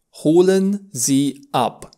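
Holen Sie ab, slowed; slow teaching model. Shown as a demonstration. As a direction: stress holen, slowly.

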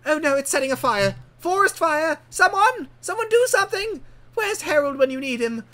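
high, loud cries for help; alarmed shouting. Acted. Smoker starting a forest fire, high panicked calls for help.

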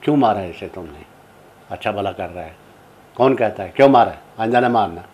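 loud scolding of the director, fast at first; retold scolding shout. Woman shouting at the director on set, loud scolding. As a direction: call it out across the set to defend the boy. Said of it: "आवाज़ लगा दी".

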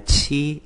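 "chi" pronounced like Chinese qī; "chi" read the Mandarin way; Mandarin seven. Shown as a demonstration. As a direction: say "chi" as Mandarin qī, high level. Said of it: "Bảy đọc là".

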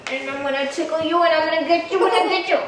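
fast, rising playful teasing; playful tickle threat. Real, not acted. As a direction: rattle it off as you tickle.

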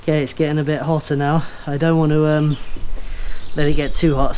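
short of breath behind a mask; puffing between words, breath running short. Real, not acted. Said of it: "I'm quite out of breath".

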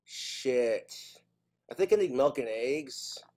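low, soft absent-minded muttering; talking to oneself. Acted. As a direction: think aloud under your breath, with long pauses. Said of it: "they will talk to themselves".

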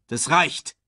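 kurzer, bestimmter Befehl; befehlend. A narrator's reading. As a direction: knapp anordnen. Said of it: "befahl Scar". (befehlender Ton)

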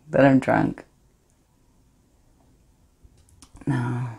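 Astrid, guilty yet thrilled, hushed and intimate; a woman savouring her secret betrayal; defiant confessional monologue. Acted.

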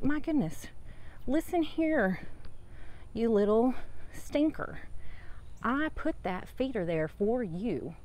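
high, playful scolding of a little pest; mock scolding. Telling off the hummingbird at her feeder, playful mock scolding. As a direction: wag a finger at a cheeky bird, half teasing.

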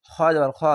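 খ as a thick, rounded "kho"; heavy letter. Shown as a demonstration. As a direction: say খ heavy, without "aa". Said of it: "এখানে মোটা অক্ষর আকার উচ্চারণ হবে না". (খ, আকার ছাড়া মোটা উচ্চারণ)

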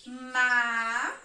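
teacher marking a syllable for the class. Shown as a demonstration. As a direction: clap out the syllable "Ma". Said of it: "vou marcar a sílaba ao passo que eu vou pronunciando".

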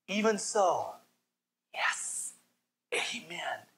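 sinking into a hushed amen; fading amen. Real, not acted. Preacher answering his own longing, fading to a hush. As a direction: let it die away softly.

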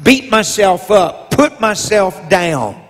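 rising preacher cadence over organ; preaching. Acted. Preacher rousing the church to believe in themselves, preaching. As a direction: preach it out to the congregation.

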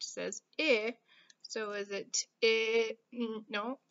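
normal talking voice

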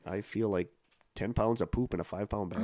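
congested, stuffy voice; blocked nose. Real, not acted. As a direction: talk like your nose is blocked. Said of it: "you're getting very congested".

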